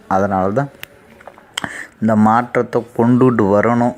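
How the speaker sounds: thunderous political oratory. Acted. Mock politician addressing rally crowd.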